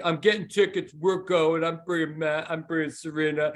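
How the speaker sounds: a light take on John, eager and insistent; John imitation. Friend announcing playoff tickets to Bill, lightly voiced eager John. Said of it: "John imitation".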